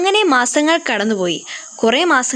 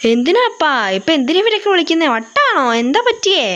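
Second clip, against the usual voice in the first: baffled; 6 semitones higher than usual. Acted. Son baffled by father's order.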